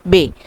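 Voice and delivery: बे said as the German letter name, bay. Shown as a demonstration. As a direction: clear German B: बे. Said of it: "B को हम बोलते हैं बे". (German "बे" साफ़ उच्चारण)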